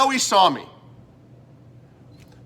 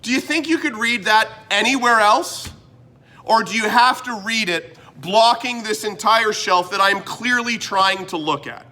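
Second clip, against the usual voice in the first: higher and louder, incredulous scolding; exasperated telling-off; 4 semitones higher, 3 dB louder than usual. Retold or imitated. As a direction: let the reader blocking the shelf have it. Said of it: "all I wanna do, again, is say".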